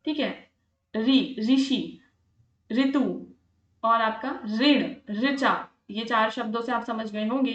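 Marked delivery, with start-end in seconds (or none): 0.9-2.0 "री, ऋषि" said slowly and carefully, ri as in rishi; pronunciation demo. Shown as a demonstration. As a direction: spell out the sound "री" then the word "ऋषि". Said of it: "री से ऋषि". ("री, ऋषि" धीरे और साफ़ उच्चारण में)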